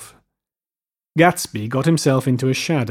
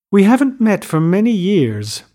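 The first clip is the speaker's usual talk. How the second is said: matter-of-fact; 7 semitones higher, 4 dB louder than usual. A narrator's reading. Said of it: "her voice as matter-of-fact as it could ever be".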